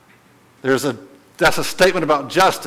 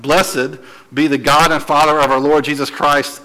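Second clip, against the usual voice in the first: emphatic scripture reading. Shown as a demonstration. Preacher reads the opening verse to the class, emphatic. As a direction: read the verse out firmly. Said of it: "exclamation point".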